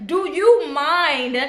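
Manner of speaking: slow, high "Do you mind?" sung out sweetly; sweeter polite ask. Retold or imitated. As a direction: stretch "Do you mind?" in a sugary voice. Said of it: "These are all words of great vibe".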